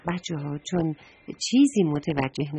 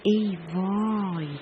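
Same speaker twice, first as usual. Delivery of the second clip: sudden dismay; 3 dB quieter, much slower than usual. Acted. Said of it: "یه دفعه گفت".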